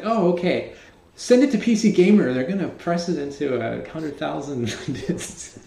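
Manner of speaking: offhand boss voice. Retold or imitated.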